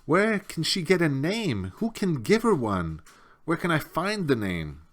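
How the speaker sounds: high, loud anxious questions; urgent pleading. A narrator's reading. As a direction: press her desperately for an answer. Atreyu pleading with Morla.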